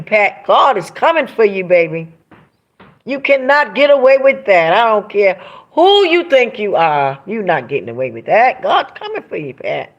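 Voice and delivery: angry warning. Real, not acted. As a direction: warn her that judgement is coming.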